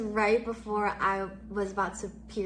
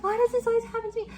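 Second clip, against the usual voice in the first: high, fast, louder whiny wail; retold bawling; 12 semitones higher, 5 dB louder, much faster than usual. Reliving the street meltdown, whiny half-sob. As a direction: rush it out like you're about to bawl. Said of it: "I'm gonna start bawling".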